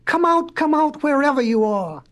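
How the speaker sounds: high, singsong calling; lifted calling voice, easing down; crying out. Acted. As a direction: call someone out from hiding. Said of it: "cried the professor".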